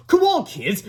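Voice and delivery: high, loud call to the class; shouting teacher. A narrator's reading. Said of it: "shouted Miss Ribble".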